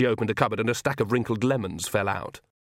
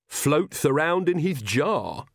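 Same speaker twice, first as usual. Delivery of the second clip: slow, higher-pitched lisping boast; proud, lisping; 6 semitones higher, much slower than usual. Acted. Igor boasts of his cousin to Nanny, proudly. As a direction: draw it out proudly with a lisp. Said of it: "said Igor proudly".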